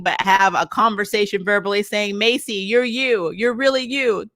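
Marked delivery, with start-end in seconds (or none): 2.2-4.3 high-pitched, hammed-up pep talk; mock encouragement. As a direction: imitate useless cheering-on, mockingly. Mocking characters' pep talk.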